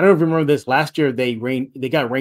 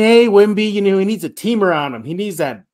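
mock pundit voice; 3 semitones higher than usual. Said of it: "everybody's saying".

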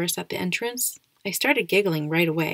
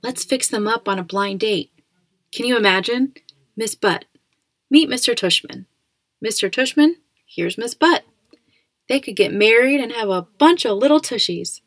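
eager, lifted, getting louder; excited; 3 semitones higher, 6 dB louder than usual. A narrator's reading. Dad joking about a blind date, excited. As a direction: build excitedly on a silly idea, pitch bouncing higher. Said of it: "said Dad excitedly".

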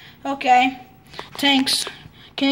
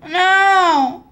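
loud scared no; 5 semitones higher, 5 dB louder than usual. Pretend. Panic at spider.

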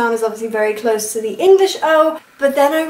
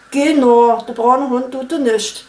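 Saxon accent, lips puckered. Shown as a demonstration. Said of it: "keep your lips puckered for the entire sentence".

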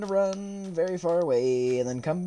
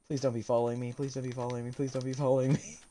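quiet pleading; 8 dB quieter, much faster than usual. Real, not acted. Pleading as mob chases.

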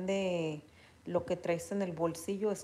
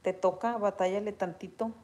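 bossy retort; 3 semitones higher, 5 dB louder than usual. Pretend.

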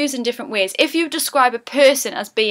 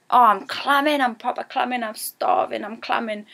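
Geordie clamming; 2 semitones higher than usual. Shown as a demonstration. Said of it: "If you're hungry, you say".

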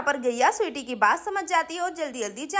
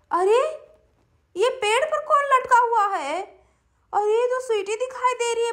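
pitched-up surprise easing into mild scolding; astonished aunt; 6 semitones higher than usual. Acted. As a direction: voice an aunt startled by a child's mischief. Aunt discovers child hanging in tree. (हैरान चाची की हल्की डाँट)

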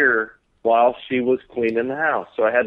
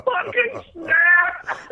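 higher, dragged-out stunned curse; slow stunned curse; much slower than usual. Retold or imitated. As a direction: drag it out in shock. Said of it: "And I was like".

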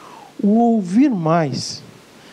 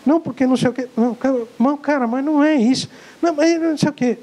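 higher, rising pushy interruptions; interrupting impatiently; 5 semitones higher, faster than usual. Retold or imitated. Talking over a nervous coworker, pushy and higher. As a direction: cut her off, talking over her.

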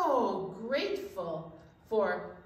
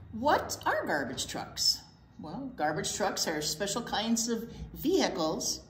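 put-on reading to children; 3 semitones lower than usual. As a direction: read the book to little listeners. Reads picture book aloud to children.

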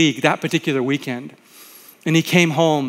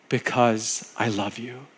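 because I love you, softer and slow, fading out; softer fading repeat; 6 semitones lower, 7 dB quieter, slower than usual. Acted. Pastor closing God's words to listeners, fading softly. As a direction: let because I love you fade away.

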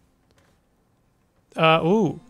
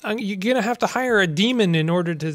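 gardener voice; 5 semitones higher than usual. Acted. Gardener character voiced in game.

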